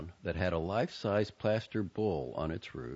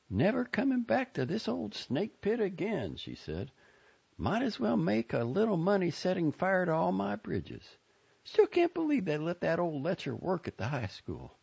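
higher voiced Joni, scornful and done with the town; bitter young woman; 13 semitones higher than usual. A narrator's reading. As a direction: spit it out as you leave for good.

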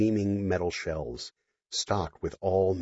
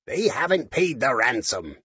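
robot voice; 5 semitones higher than usual. Acted. Robot Scallywag speaking.

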